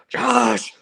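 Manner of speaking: high, hammed-up Japanese accent. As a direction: put on a bad Japanese accent. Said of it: "I'm gonna do a terrible Japanese accent here".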